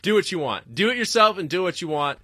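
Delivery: high indignant outburst; retold angry retort. Retelling snapping at guy who called shirt not punk, indignant. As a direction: fire back at the heckler. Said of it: "I'm like".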